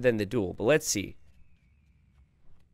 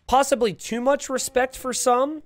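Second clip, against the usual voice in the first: dramatic announcer; 11 semitones higher than usual. Acted. Dramatic pronouncement on loyalty.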